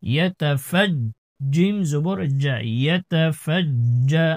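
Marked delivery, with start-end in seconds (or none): 0.0-0.9 ইয়াতাফাজ with the final j held firmly; firm jim. Shown as a demonstration. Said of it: "জিমকে একটু শক্ত করে ধরতে হবে". 2.8-4.3 ইয়াতাফাজ্জা slowly, leaning on the doubled j; firm doubled jim. Shown as a demonstration. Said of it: "জিমকে একটু শক্ত করে ধরতে হবে".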